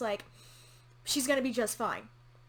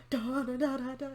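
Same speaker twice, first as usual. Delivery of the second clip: drum beat. Shown as a demonstration. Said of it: "I heard the drums".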